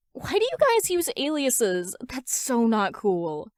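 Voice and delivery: put-on lightly high pouty girl voice; sulky, mildly whiny complaint; a hint of a pouting girl. A narrator's reading. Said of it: "she pouts".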